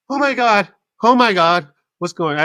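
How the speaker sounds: high, loud hammed-up wail; overdone tearful exclaiming; mock crying. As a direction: imitate someone crying out in distress. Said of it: "she's crying".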